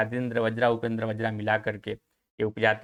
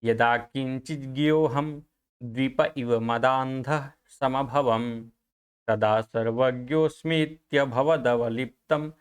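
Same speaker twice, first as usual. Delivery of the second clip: measured shloka, pausing after each phrase; Sanskrit verse recitation; slower than usual. Shown as a demonstration. Teacher introduces the ninth verse to students, Sanskrit verse recitation. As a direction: recite it syllable by syllable with sustained endings.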